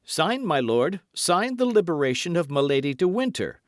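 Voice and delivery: high, loud insistence; urgent demand. A narrator's reading. Felton holds out the paper to the Duke, urgent demand. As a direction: press him hard to sign.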